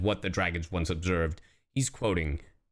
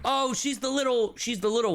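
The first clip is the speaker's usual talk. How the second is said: gasp, then much higher excited realisation; sudden recognition; 14 semitones higher than usual. Real, not acted. Streamer suddenly recognising the character, gasping and higher. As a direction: catch your breath as it clicks.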